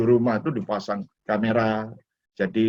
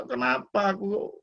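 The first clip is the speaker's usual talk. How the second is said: higher, lightly whiny complaint; lightly voiced complaining to himself; mock grumbling; 5 semitones higher than usual. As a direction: grumble in a mild mock self-pity. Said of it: "Kalau mau ngomel".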